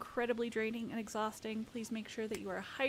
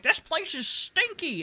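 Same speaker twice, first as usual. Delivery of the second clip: mock customer, louder and higher, slow; whiny customer; 8 semitones higher, 8 dB louder than usual. Retelling a game customer's complaint, mock whine. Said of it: "and then they're like".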